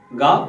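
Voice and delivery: गा with a hard g, like गाफ; thin wrong ghain. Shown as a demonstration. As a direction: show the thin mistaken गा. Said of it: "अगर बारीक पढ़ देंगे तो". (गा बारीक, गाफ जैसा)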